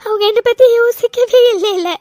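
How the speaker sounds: steady tearful voice, sniffling between phrases; a light weepy telling of missing her birth mother; crying. Acted. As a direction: keep the tears under every line. Cries through her story.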